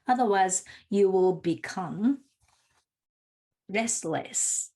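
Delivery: measured letter reading with deliberate pauses; reading aloud. Acted. Speaker reads a friend's letter to a listening conference audience, measured reading.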